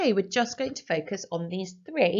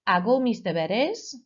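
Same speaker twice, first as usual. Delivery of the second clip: model phrase. Shown as a demonstration. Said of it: "So after me, please".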